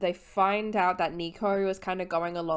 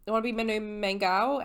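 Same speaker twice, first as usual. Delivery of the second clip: playful Artemis; 4 semitones higher, 3 dB louder than usual. Retold or imitated. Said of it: "Artemis is like".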